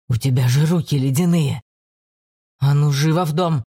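put-on bossy older brother voice; stern brother. A narrator's reading. Brother scolds cold sister. (строгий брат)

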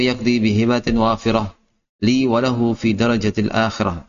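steady, even recital of Arabic verse; verse recitation. Real, not acted. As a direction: recite the memorized poem line after line. Recites the poem's opening verses.

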